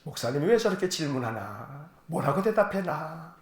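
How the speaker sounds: low, soft mock wondering; imitated inner muttering. Preacher mimicking listeners unsure how to answer, muttering. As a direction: voice the congregation's private puzzlement under your breath. 교인들의 속마음을 흉내냄.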